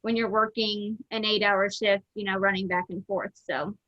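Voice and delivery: muffled through a mask; talking behind a face mask. Real, not acted. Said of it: "hopefully you can hear me through my mask".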